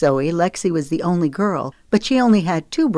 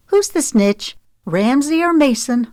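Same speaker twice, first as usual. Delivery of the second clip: angry growl; 9 semitones higher, 4 dB louder than usual. A narrator's reading. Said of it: "She growled".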